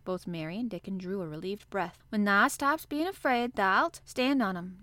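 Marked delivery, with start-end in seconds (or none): 2.1-4.8 cheerful. Acted. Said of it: "with renewed cheer".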